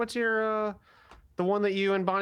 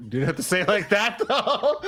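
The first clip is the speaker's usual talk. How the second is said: mock offended laugh; 3 semitones higher, 5 dB louder than usual. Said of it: "You're like".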